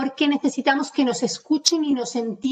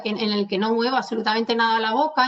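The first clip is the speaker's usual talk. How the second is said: mumbled fast; 2 semitones lower, faster than usual. Shown as a demonstration. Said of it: "como voy a hablar ahora".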